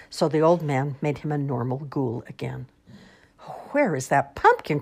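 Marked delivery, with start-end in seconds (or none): 3.7-4.8 put-on croaking old man. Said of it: "croaked the old man".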